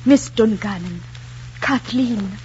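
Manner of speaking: lightly acted lovestruck suitor; measured, halting, mock-heartfelt plea; tremulous suitor. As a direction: play a suitor overcome by feeling. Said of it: "say in a tone which trembled with the force of his feelings".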